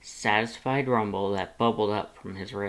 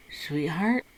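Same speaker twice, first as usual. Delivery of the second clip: Lust's voice; 7 semitones higher than usual. A narrator's reading. Lust calls out gently.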